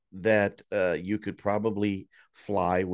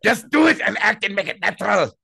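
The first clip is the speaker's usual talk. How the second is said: German director; 10 semitones higher, 10 dB louder than usual. Pretend.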